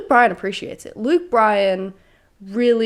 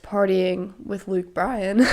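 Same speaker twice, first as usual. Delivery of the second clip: voice crack; slower than usual. Real, not acted. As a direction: voice cracking on the rising end. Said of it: "voice crack".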